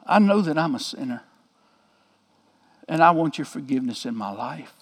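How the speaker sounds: a quiet, humble plea to God; retold prayer. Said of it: "And she prayed".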